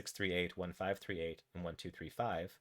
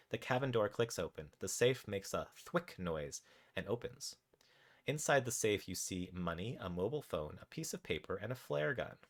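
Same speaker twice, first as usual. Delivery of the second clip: measured, animated game narration; story narration. A narrator's reading. Narrator tells players what their raccoon does, story narration. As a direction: read the adventure out with deliberate pauses. Reads interactive story aloud.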